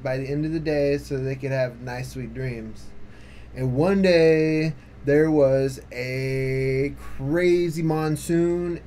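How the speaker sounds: cheerful tall-tale narration; storytelling. A narrator's reading. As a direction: spin it like a campfire yarn. Tells Pecos Bill tale.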